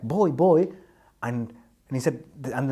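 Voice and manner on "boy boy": insistent call. Retold or imitated. Colleague insisting on the boy.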